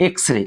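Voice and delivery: এক্স রে said eks-ray. Shown as a demonstration. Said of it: "এখানে হচ্ছে বলতে হবে".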